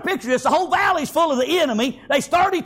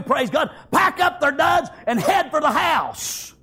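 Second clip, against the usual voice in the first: raised, driving preacher voice; preaching at full force; 2 semitones higher than usual. Acted. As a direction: preach it out with fire.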